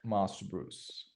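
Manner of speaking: slow posh British butler voice; British accent. Pretend. Player doing a slow British butler: British accent. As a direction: say it like an English butler, drawn out. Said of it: "I say".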